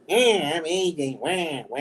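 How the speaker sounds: lightly whiny caricature of himself; imitating his imitators. Mimicking people who imitate him, lightly whiny caricature. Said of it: "every time someone imitates me".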